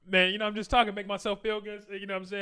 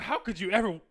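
drawn-out mock moral shock, climbing higher; disapproving outsider; 4 semitones higher than usual. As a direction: imitate a scandalized onlooker pleading, slow then high. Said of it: "other people like from the outside".

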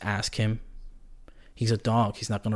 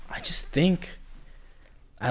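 a quick breathy whisper; whispered aside; 7 semitones higher than usual. Real, not acted. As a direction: drop to a secretive whisper. Confessing an opinion quietly.

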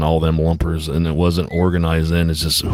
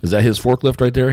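pointed question; 6 semitones higher than usual. Retold or imitated. Retold standoff with forklift guy.

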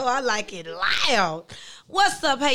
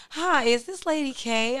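proper voice; 4 semitones higher than usual. Retold or imitated. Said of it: "she was so proper".

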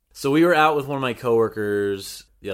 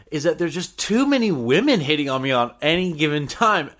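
imitating coworker; 6 semitones higher, 5 dB louder than usual. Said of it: "And he's like".

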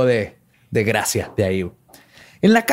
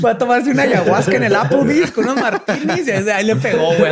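put-on ditzy girl voice; 5 semitones higher than usual. Mocking the wife's epiphany.

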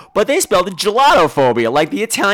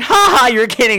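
higher, loud fake ha-ha; mock laughing disbelief; 6 semitones higher, 4 dB louder than usual. Hearing someone confess fear of laughter, mock laughing disbelief. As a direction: imitate laughing in someone's face. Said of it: "I'm probably gonna laugh at you".

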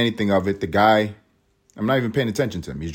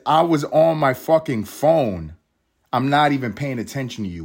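mocking the driver; 4 semitones higher than usual. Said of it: "He's driving and he says".

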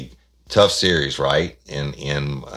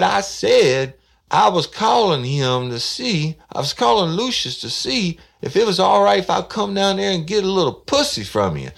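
a raised, louder voice for the man calling; brash caller; 6 dB louder than usual. Retold or imitated. Prank caller demanding to know where Johnson is, loud. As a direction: push it out like a pushy caller.

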